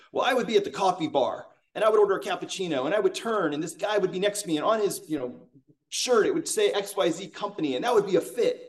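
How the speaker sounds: bubbling over with keen energy, retold; imitating eager excitement. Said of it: "and he's super excited".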